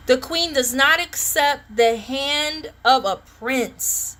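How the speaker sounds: drawn-out oracle reading; slow ceremonial tarot reading; solemn slow reading. Acted. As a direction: intone the card slowly like a proclamation. Rereading card slowly.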